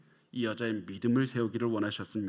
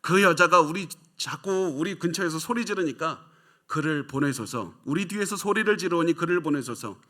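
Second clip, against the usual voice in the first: pleading disciples; 4 semitones higher, 4 dB louder than usual. Retold or imitated. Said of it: "이렇게 말씀을 합니다".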